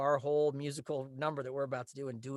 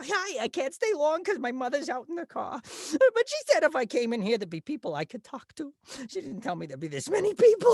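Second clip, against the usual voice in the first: much higher, louder, nasal-free excitable nerd; hyperactive nerd voice; 14 semitones higher, 10 dB louder than usual. Retold or imitated. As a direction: play the jittery nerd who can't stop talking. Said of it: "a character named Ernest Finkelstein".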